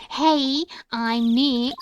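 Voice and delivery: punchy, projected hello. Acted. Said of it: "not saying it loud enough".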